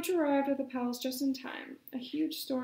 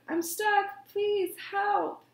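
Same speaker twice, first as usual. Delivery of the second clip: much higher, louder cry for help; shouting for help; 7 semitones higher, 4 dB louder, much slower than usual. A narrator's reading. Peg stuck up on the bed, shouting for help loudly. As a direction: yell as loud as she can. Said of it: "she shouted as loud as she could".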